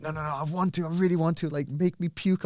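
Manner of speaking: high, eager plea to join in; eager young client voice. Retold or imitated. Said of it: "He said".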